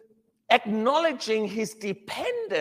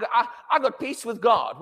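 mock self-focused boast; 3 semitones higher than usual. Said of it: "we made a lot of the things about".

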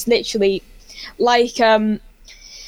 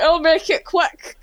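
imitated Scottish accent, higher and drawn out; 6 semitones higher, slower than usual. Minder hurrying a fan along, mock Scottish accent. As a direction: lightly put on a Scottish accent, slowly. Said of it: "it was just Scottish".

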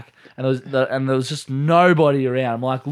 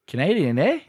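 imitated Canadian accent; light mock Canadian with a tagged-on eh; 4 semitones higher than usual. Asked how the girl sounded, mock Canadian accent. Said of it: "What did her voice sound like?".

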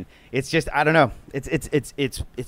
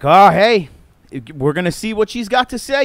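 mock Trump statement; 3 semitones higher, 6 dB louder than usual. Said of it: "This is your one chance to be like".

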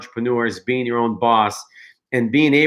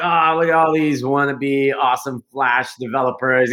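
mock scoff. Mocking the new team's developers.

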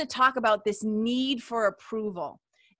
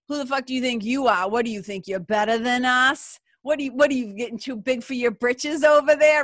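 mock-angry local putting him in his place; blue-collar heckler. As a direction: jeer like a hometown guy cutting someone down. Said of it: "the very common blue collar".

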